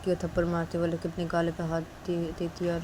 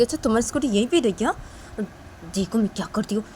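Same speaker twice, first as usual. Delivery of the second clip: quick, taunting challenge; mock her then threaten, fast; 4 semitones higher, 4 dB louder, faster than usual. Bully taunts the new girl before pushing the scooter, quick and mocking. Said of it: "वो लड़की बोलती".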